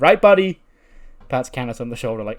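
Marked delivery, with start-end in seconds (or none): 0.0-0.6 high, loud fake-friendly jab; mock-chummy taunt. Champion's rival pats her shoulder, mock-chummy. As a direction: toss it out high and loud, falsely pally.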